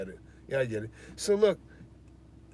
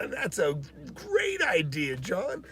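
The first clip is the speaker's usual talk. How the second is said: wry acceptance; 6 semitones higher, much slower than usual. Retold or imitated.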